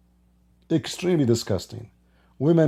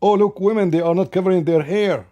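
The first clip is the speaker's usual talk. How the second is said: higher-pitched mocking exclamation; mock shock; 6 semitones higher, 3 dB louder than usual. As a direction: imitate scandalized gawking at the women. Mocking the TV station's outrage.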